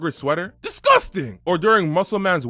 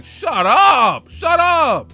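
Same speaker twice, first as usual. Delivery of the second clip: yelled "shut up", louder and higher; mock shout; 8 semitones higher, 6 dB louder, much slower than usual. Fed up with Sakura's screaming, yells shut up. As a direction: bark it back at her screaming. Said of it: "And the screaming".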